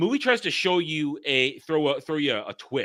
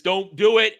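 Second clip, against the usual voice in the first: mock warning; 7 semitones higher, 7 dB louder than usual. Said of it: "he says".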